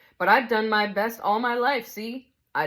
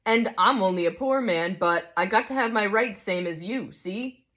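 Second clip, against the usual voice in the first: higher and louder, defensive protest; indignant big ghost; 5 semitones higher, 3 dB louder than usual. Acted. Big ghost insists on his rights to the spirit, indignant. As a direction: insist on your rights, stung.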